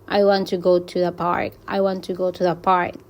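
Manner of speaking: "to" unstressed and reduced, WANT, GO, PARK carry it; weak "to". Shown as a demonstration. Teacher showing students a weak word, "to" left unstressed. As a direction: glide lightly over "to". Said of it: "es una palabra débil".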